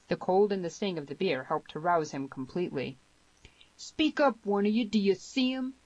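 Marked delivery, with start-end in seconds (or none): 3.8-5.8 high, forceful roar at the crowd; thundered demand. A narrator's reading. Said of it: "thundered Harmony".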